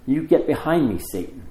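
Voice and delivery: firm rebuke, falling away at the end; mildly stern command; a little stronger. Retold or imitated. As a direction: rebuke with a push on the first words. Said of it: "has to be a little stronger".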